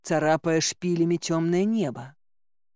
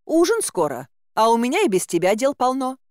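high, busy woman's voice; hurrying caretaker woman; 6 semitones higher, 4 dB louder than usual. A narrator's reading. Caretaker with much to do, high hurrying voice. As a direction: chivvy in a high folksy voice. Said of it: "поторопила меня женщина".

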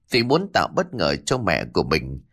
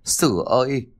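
desperate begging; 5 semitones higher than usual. A narrator's reading. Mother clinging to her angry son's legs, begging. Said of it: "rồi van vỉ".

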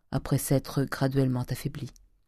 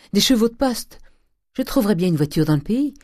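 higher, louder, fast urgent orders; urgent shout; 6 semitones higher, 6 dB louder than usual. A narrator's reading. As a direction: demand horses at once, shouting. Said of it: "cria-t-il". (ordre crié, pressé et aigu)

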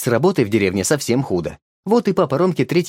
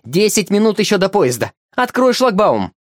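angry demand; 8 semitones higher, 3 dB louder than usual. Acted. Woman yells at keeper.

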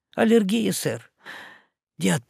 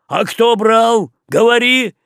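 furious demand; 8 semitones higher, 7 dB louder than usual. Acted. Boatswain interrogates sailor, shouting. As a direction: pound the question home.

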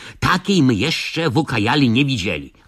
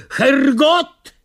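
high, loud pained curse; yelled curse; 11 semitones higher, 4 dB louder than usual. Acted. Bitten captors curse loudly in pain. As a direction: bitten men cry out in German. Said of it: "wrzasnęli ugryzieni".

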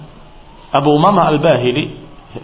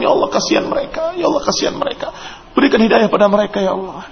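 pleading prayer; 6 semitones higher than usual. Pretend.

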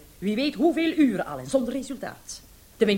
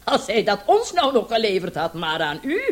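the commissioner's sarcastic telling-off; scornful scolding; 6 dB louder than usual. Acted. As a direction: scold him with contempt. Commissioner scolding about missing specialist.

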